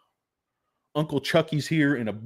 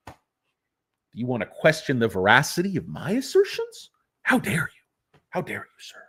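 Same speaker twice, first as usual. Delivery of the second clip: mock offended executive.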